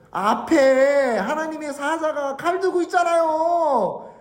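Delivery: high, wailing talking-donkey voice; pleading donkey. Acted. Donkey warns Balaam about the angel, pleading. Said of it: "당나귀가 뭐라 그럽니까?".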